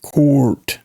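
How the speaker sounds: "court" as "caught" with a little R; r-coloured rounded AW in "court". Shown as a demonstration. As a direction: slip an R into the vowel, "court". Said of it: "got a little R in it".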